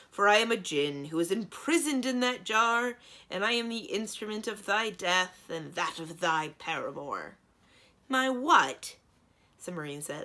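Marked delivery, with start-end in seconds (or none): 0.1-7.4 loud, higher otherworldly giant voice; booming djinn threat. A narrator's reading. Djinn threatens Cimmerian and Thranduil, booming. 8.1-9.0 high, loud indignant retort; outraged. A narrator's reading. Cimmerian answers the djinn, loud and outraged.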